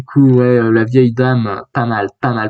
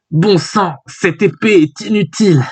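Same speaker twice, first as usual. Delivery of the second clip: higher-pitched, lightly acted exasperation; frustrated character; 5 semitones higher than usual. Reader voicing a manga hero cursing a sword, mild exasperation.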